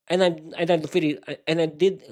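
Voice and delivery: tripping over the words; stuttering. Real, not acted. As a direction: stumble and restart each phrase. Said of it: "why I'm stuttering right now".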